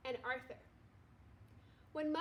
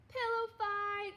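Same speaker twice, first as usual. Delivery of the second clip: high, slow excited shout; screamed; 7 semitones higher, 4 dB louder, slower than usual. A narrator's reading. Buster calling a pillow fight, shouting. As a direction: yell it out to start the fight. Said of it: "screamed Buster".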